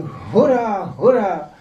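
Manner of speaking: high, loud crowd cheer; crowd shouting. Retold or imitated. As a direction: cry hurá like a jubilant crowd. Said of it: "A křičeli".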